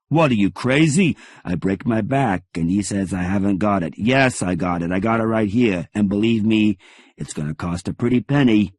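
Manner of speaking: loud, indignant rant; yelling. Acted. Bookseller yelling at a caller who doubts him, loud and indignant. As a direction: bark back like an insulted shopkeeper. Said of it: "he's yelling at me".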